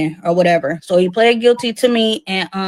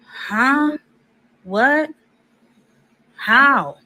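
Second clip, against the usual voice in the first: higher, playing dumb; mock clueless boyfriend; 5 semitones higher, much slower than usual. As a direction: imitate his fake surprise. Imitating boyfriend's feigned surprise.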